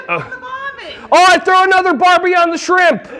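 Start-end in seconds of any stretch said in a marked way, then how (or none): 1.1-3.1 higher-pitched mock-Australian catchphrase; Australian accent. Shown as a demonstration. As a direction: put on a comic Australian accent.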